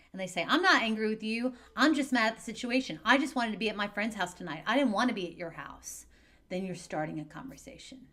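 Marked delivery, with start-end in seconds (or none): 0.5-6.1 acted teen protesting, louder and higher; teen pushing back. Teen snapping back at a parent, loud and higher. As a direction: play the upset kid arguing back hard.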